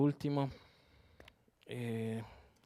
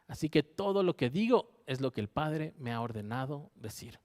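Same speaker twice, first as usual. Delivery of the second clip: scripture reading. Acted. Preacher reading John twelve to his congregation, proclaiming. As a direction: read the verses out as a proclamation. Reads scripture passage aloud.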